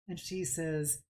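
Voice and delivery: ordinary talk, nothing marked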